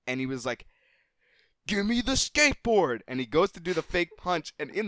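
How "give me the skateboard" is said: put-on high, loud, bossy kid snapping for the board; bratty demand. Annoying camp kid grabbing for the board, loud bossy demand. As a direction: demand it like a spoiled bully winding up a punch.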